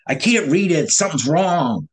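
mildly agitated, pitch lifted; retold frustration. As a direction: act out confused frustration on the phone. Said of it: "I'm just frustrated".

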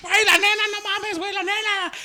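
high urgent yelling; frantic warning. Retold or imitated. Kid tugs classmates, warning teacher's coming, high urgent yell. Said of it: "los jalaba".

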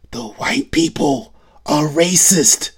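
a light effeminate impression of a singer; singer impression. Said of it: "I can't do a good effeminate Michael Jackson impersonation".

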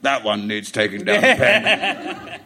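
slow, half-laughing British voice; mock the Brits, slowed; imitating British people. Imitating Brits sizing up a cocky Aussie, slow. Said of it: "British people really do feel like".

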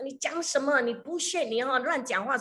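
high-pitched angry retort; angrier scolding. Retold or imitated. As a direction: lash out even harder at the old man. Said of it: "更大骂这个老人家". (更生气地大骂)

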